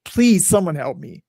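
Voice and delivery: high, whispered prayer for help; a broken addict pleading in a jail cell, whispered; desperate whispered plea. Retold or imitated. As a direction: beg God in a whisper. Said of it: "raises his arms up and just like".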